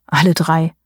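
lightly voiced gruff landlord, flat statement; grumbling innkeeper. A narrator's reading. Innkeeper grumbles at the narrator, mildly gruff. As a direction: grumble it as a dry fact. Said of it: "brummte er".

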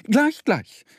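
very high, fast ant squeak; tiny ant police calling. Acted. Ant police announcing themselves to Mo, squeaky call. Ants answer.

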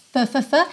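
short repeated puffs of TH, written f; tongue tip on front teeth, puff "th, th, th". Shown as a demonstration. Teacher drills the start of "through", puffed TH. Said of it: "põe a pontinha da língua lá nos dentes".

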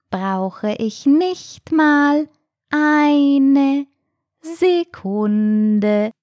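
very slow, drawn-out, high snail voice; proud snail. A narrator's reading. Snail boasts about its house to the shark, proud. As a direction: stretch every word with slow pride. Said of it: "sagte die Schnecke stolz".

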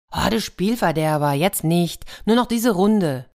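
put-on a touch of childish pleading. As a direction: beg like a child who won't stop playing. Sonne begs one more round.

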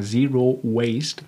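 slow "Zero Waste" with gum in mouth; chewing gum. Real, not acted. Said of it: "das kann man mit Kaugummi im Mund gar nicht gut sagen".

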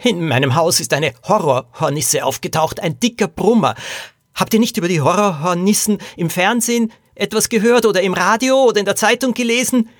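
high, urgent man's voice; panicked little jockey. A narrator's reading. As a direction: warn them in a fluster. (aufgeregter kleiner Jockey, hohe Stimme)

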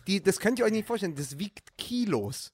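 numb tongue. Real, not acted. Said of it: "Mein Zungenschlag ist heute eine Pauke".

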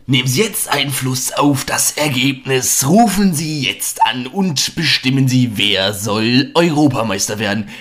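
slow mock TV ad announcer; infomercial. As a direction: read it like a cheesy phone-in promo. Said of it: "dann so die Durchsage".

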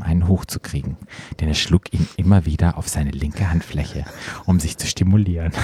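measured read-aloud voice, lowering as it goes; composed narrator delivery; story narration. A narrator's reading. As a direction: read it out like an audiobook. Reads erotic story aloud.

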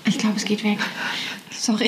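holding back a sneeze; about to sneeze. Real, not acted. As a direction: talk through a coming sneeze. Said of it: "Ich muss niesen". (kurz vorm Niesen)

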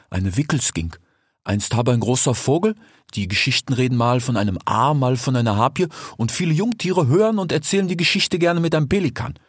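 lightly voiced sly desert fox talking to his friend; a hint of a streetwise fox, casual and teasing; fox character voice. Desert fox speaks to the sick grey fox, lightly voiced. Fennec tells the legend.

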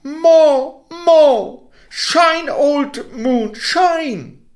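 put-on high, eager child calling out; excited boy. Boy urging the moon to shine, high and excited. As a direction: egg the moon on gleefully. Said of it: "cried the little Havelmann".

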